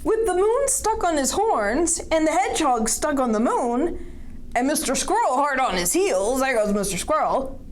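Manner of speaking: lilting, animated narrator with swinging pitch; storybook reading to children. A narrator's reading. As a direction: read the chase with bouncy momentum. Reading a picture book aloud.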